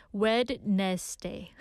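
"Wednesday" read out as spelt; spelling pronunciation. Shown as a demonstration. Radio host showing listeners the odd spelling, spelling pronunciation of "Wednesday". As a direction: say "Wednesday" carefully, syllable by syllable. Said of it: "like, carefully, it says Wednesday".

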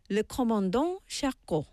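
French accent on the ship name. Shown as a demonstration. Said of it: "You like my French accent there?".

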